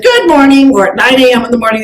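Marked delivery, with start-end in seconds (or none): 0.0-0.7 mixed-up greeting. Retold or imitated. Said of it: "somebody said".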